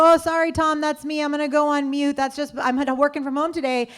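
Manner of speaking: lightly voiced casual older man; mock apologetic board member. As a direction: play the sheepish guy owning up. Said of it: "one of the other guys jumps in and goes".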